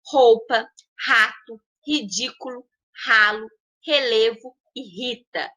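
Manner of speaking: strong initial R in roupa, rato, ridículo; R forte inicial. Shown as a demonstration. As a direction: say each word-initial R in roupa, rato, rita as a strong guttural sound. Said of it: "eu falei com som forte". (R forte no início de roupa, rato, rita)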